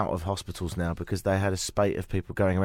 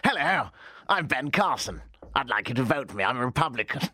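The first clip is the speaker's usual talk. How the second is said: Ben Carson impression. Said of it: "I should have gone more".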